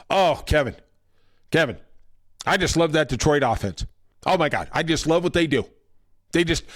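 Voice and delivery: lightly mocked gushing announcer; hint of an over-adoring commentator; Tom Brady. Announcer gushing to his booth partner about Detroit, lightly mocked. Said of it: "I'm gonna do my Tom Brady imitation here".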